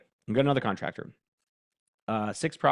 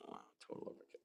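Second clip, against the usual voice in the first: whispered aside, far softer; 24 dB quieter, much faster than usual. Real, not acted. Muttering to himself about the output, whispered. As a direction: breathe it as a private aside. Repeats remark under breath.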